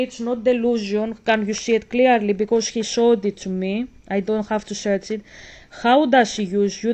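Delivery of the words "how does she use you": louder, rising sly question; snake asking. Acted. Reader voicing the snake tempting Pip, louder. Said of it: "That's the snake asking you questions".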